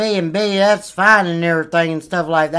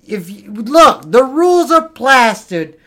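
put-on drunken rant; 4 semitones higher, 5 dB louder than usual. Drunk rant about the rules.

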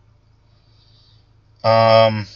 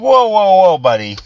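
whoa buddy; 7 semitones higher, 4 dB louder than usual. Retold or imitated. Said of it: "I'm like".

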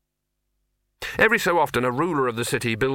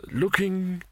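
dreamy stunned; 8 semitones higher than usual. Acted. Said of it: "in a dreamy, stunned voice".

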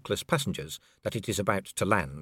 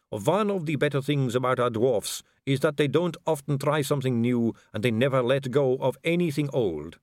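a vampire noblewoman purring at a dangling man; suave vampire lady; 4 semitones higher than usual. Acted.

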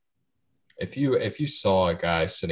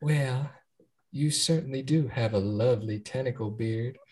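Southern Belle voice; 4 semitones higher than usual. Acted. Flirting with a tentacle-bearded man, mild Southern Belle voice. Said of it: "do your Southern Belle voice".

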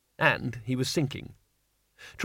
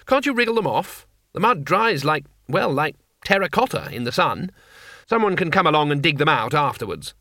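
lively tourist voice; 2 semitones higher than usual. Acted. Two Flower advises.

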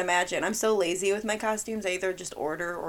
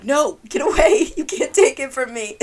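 mock possessive; 6 semitones higher, 11 dB louder than usual. Clutching the wine, refusing to share.

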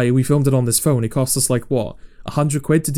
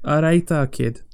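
amateur go at Mancunian; butchered Manchester accent. Shown as a demonstration. Copying co-host's catchphrase on request, butchered Manchester accent. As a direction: attempt a Manchester accent and botch it. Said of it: "I've just butchered it".

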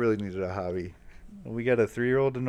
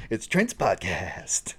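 whispered intro; much slower than usual. Acted.

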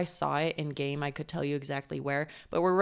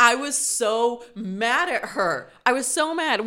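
laughing; 5 semitones higher, 7 dB louder, slower than usual. Real, not acted. Laughing about being mad at Lydia.

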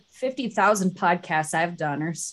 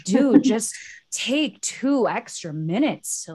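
exasperated; 3 semitones higher, slower than usual. Retold or imitated. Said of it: "I just wanna smack people on the head sometimes and be like".

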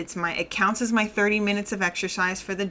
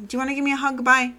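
coaxing relative; 7 semitones higher, 4 dB louder, much faster than usual. Retold or imitated. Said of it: "when people do it to my daughter".

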